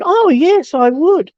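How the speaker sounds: imitated eager reply, pitch lifted; eager acceptance. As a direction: act out someone readily accepting an offer. Acting out judge's keen reply.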